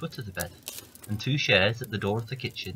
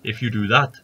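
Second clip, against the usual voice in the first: giant voice; 7 dB louder than usual. Acted. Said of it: "says the giant".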